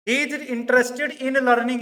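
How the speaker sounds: very slow dictation. Shown as a demonstration. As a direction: read word by word for notes. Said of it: "dictating example sentence".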